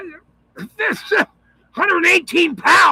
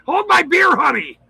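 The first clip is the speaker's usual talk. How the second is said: laughing through it; 2 semitones higher than usual. Retold or imitated. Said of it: "Dave's going".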